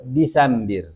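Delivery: Desember sounded disambi, low; Arabic Desember. Shown as a demonstration. Teacher warns pupils it is not disambar. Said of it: "Bukan disambar ya".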